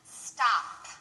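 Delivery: slow, careful delivery with every final P released; a teacher speaking slowly and deliberately; slow model sentence. Shown as a demonstration. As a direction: read the sentence slowly and over-clearly for students to repeat. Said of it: "let's try a few sentences".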